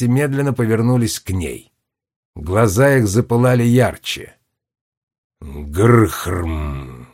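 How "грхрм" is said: low, muffled rumbling growl; a dull grinding grunt from deep in stone; muffled stone giant growl; stone giant's grunt. A narrator's reading. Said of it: "глухо пробормотал ближайший к ней каменный великан".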